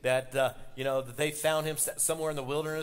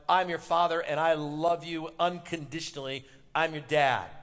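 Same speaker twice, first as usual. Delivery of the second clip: put-on a father's firm, louder comfort to his crying boy; reassuring father; 3 dB louder than usual. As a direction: promise it like a dad holding his son. Dad comforting crying son.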